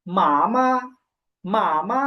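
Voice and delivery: first "মা" held long, second "মা" short and light; careful Chinese "মা, মা", long toned syllable then a light one; first tone then neutral. Shown as a demonstration. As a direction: stretch the first "মা", let the second "মা" go unstressed. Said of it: "প্রথমে আছে first tone".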